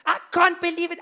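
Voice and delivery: very high, loud shocked voice; disbelieving panic. Retold or imitated. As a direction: shriek in disbelief.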